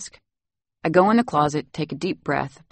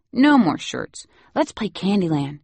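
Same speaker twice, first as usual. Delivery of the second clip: put-on child pleading; 4 semitones higher than usual.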